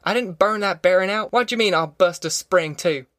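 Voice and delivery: stung, defensive retort; angry yelling. A narrator's reading. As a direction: indignantly throw the blame back. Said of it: "he yelled".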